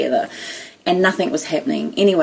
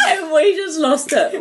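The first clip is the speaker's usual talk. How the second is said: slow, higher, laugh-filled words; 9 semitones higher, slower than usual. Real, not acted. Telling how two friends cracked up, laughing. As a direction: let the laughter into every word.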